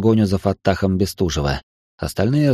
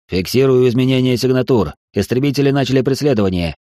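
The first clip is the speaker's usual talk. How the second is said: raised, clipped sensor report; combat callout; 4 semitones higher than usual. Acted. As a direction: report it sharply to the bridge. Sensor officer reports contacts.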